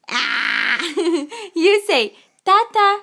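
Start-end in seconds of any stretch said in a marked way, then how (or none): 1.5-3.0 high laughing prompt; laughing coax. Real, not acted. Mother laughing while coaxing Gavin to say Tata.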